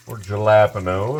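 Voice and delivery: jalapeno with a hard English J; anglicized pronunciation. Acted. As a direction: say "jalapeno" as spelt, J as in jam. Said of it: "if you're from somewhere that doesn't understand".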